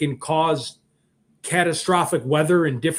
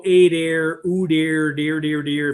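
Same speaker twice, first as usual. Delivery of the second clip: mock Fargo accent; 3 dB louder, slower than usual. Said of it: "no one talks like that in Fargo".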